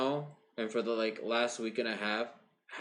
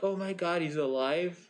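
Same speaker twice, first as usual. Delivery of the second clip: lightly imitated excited announcer; a touch of mock amazement, pitched up at the start; announcers' astonishment; 5 semitones higher than usual. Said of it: "the announcers are like".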